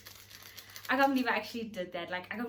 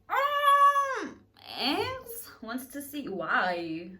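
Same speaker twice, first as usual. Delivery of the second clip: indignant disbelief; 5 dB louder, slower than usual. Retold or imitated. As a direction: question him with jealous disbelief. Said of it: "So I'm like".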